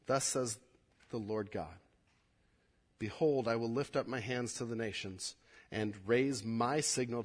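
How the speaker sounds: measured solemn reading voice; scripture reading. Acted. Pastor reads God's answer to the congregation, solemn. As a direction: read God's promise with weight.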